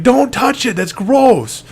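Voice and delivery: mock-frantic dad warning off; hammed-up disgusted dad; alarmed scolding.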